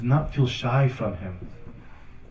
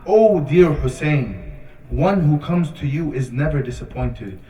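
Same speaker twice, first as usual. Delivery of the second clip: poetry recitation; 3 dB louder than usual. Retold or imitated. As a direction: recite it as a solemn line of verse. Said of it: "he says a line of poetry".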